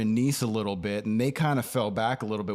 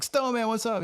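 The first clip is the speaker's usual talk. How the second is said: excited greeting; 12 semitones higher than usual. Retold or imitated. Greeting friend on street.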